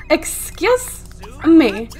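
slow, drawn-out indignation; indignant disbelief. Acted. Woman voicing a Sim shocked by seven dogs, drawn-out indignation. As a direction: stretch it out, hammed-up and affronted. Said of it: "She's like, "What the hell?".

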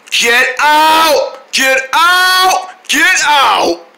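repeated high-pitched command; mock stern order. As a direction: order an intruder out in play. Ordering the gator out.

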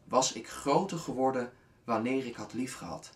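deliberate reading with a mid-line pause; measured, falling final line of verse; poem recitation. Acted. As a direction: deliver the poem's closing question with weight. Recites the poem's last line.

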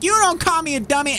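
mock indignant. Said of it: "And I was like".

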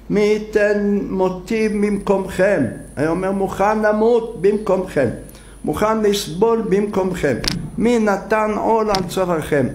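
a leader offering his life, pleading; Moses pleading. Retold or imitated.

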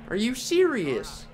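high, slow, incredulous; furious disbelief. Real, not acted. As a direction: drag it out in real disbelief. Finding himself a lap down.

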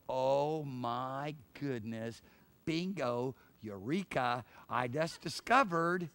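slow, drawn-out amazed exclamation; discovery. Acted. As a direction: savour each word of the discovery.

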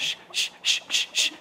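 whispered shushing; hushing. Real, not acted. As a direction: hush everyone down softly. Hushing before the launch.

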